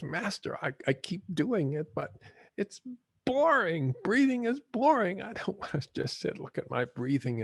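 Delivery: high, whining complaint of a bored pupil; whiny frustrated student. Retold or imitated. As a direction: whine like a student sick of sitting. Bored student whines to master.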